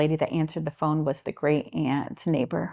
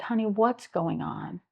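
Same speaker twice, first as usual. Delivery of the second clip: gentle, caring; 4 semitones higher, slower than usual. Real, not acted. Comforting a scared girl.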